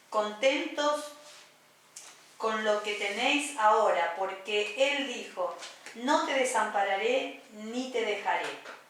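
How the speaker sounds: slow, deliberate scripture reading; Bible reading aloud. Real, not acted. Congregant reading a verse to the pastor, slow and measured. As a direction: read the verse out slowly, phrase by phrase.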